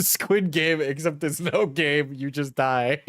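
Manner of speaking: amused, laughing through the joke. Real, not acted. Streamer riffing on a game show, laughing.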